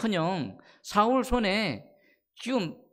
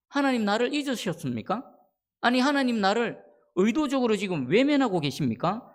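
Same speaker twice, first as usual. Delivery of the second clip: higher-pitched questioning lament; 3 semitones higher than usual. Acted. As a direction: press God with a mildly acted complaint. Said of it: "라고 탄식하고 있습니다".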